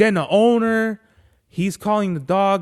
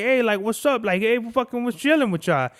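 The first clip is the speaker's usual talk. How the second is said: higher-pitched, easygoing dog greeting; friendly dog; 4 semitones higher than usual. Retold or imitated. Friendly dog galloping up to owner and pet, lightly voiced greeting. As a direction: lightly voice a non-aggressive dog saying hi. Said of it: "Not aggressively, but just like".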